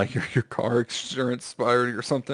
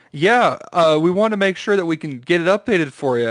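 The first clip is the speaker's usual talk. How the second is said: imitated scam caller; 5 semitones higher, 5 dB louder than usual.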